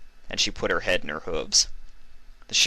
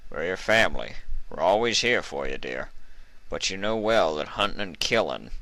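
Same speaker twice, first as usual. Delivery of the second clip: lightly voiced gentle stallion; a hint of a fond old uncle; kindly old uncle.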